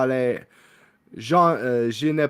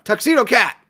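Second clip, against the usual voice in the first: much higher, louder delighted cry; excited squeal; 10 semitones higher, 7 dB louder than usual. Acted. Guest spotting the tuxedo cat, squealing with delight.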